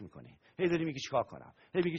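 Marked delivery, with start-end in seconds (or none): 1.0-1.5 worried mutter. Retold or imitated. Mimics worried self-talk.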